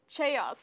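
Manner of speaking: "chaos" with a ch sound at the front, "chay-os"; naive learner's guess. Pretend. Student offers another beginner's guess, naive misreading. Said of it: "And if I see this word".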